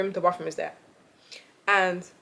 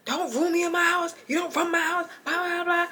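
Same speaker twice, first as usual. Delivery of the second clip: stern nan; 8 semitones higher than usual. Retold or imitated. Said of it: "So my nan's like".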